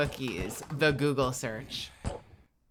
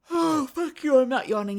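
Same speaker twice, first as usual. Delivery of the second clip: high, louder playful snap; playful outburst; 9 semitones higher, 5 dB louder than usual. Real, not acted. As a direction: protest being caught yawning. Denying yawning.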